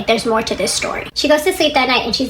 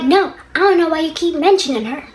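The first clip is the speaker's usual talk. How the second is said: higher-pitched imitation of a protesting husband; acted defensive denial; 6 semitones higher than usual. Husband denying the other woman to his wife, mock defensive. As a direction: act out his indignant denial.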